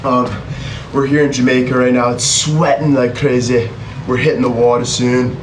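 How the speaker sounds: put-on a light, joking Canadian accent. Introducing himself to viewers as a Canadian adventurer in a light Canadian accent. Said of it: "I don't know why I'm doing that accent".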